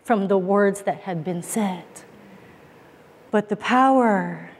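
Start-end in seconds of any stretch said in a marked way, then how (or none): 3.3-4.5 slow, weighted sermon close with long pauses; solemn preaching. Real, not acted. Preacher urging the congregation to embrace freedom, solemn and slow. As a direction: let each phrase land slowly and deliberately.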